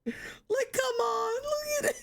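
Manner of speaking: very high, tearful-sounding whine; hammed-up high-pitched despair; wailing plea. Real, not acted. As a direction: plead in a squeaky, despairing wail. Wailing plea about redesign.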